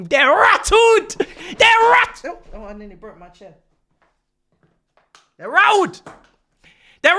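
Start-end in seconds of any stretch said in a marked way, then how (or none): 0.0-2.4 gloating shout. Real, not acted. Gloating at rival team.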